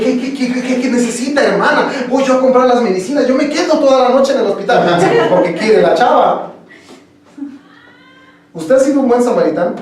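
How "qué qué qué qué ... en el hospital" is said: hammed-up, higher-pitched eager helper; mock over-keen offer to help; eager suitor. Boyfriend offering to help his mother-in-law, mock eager.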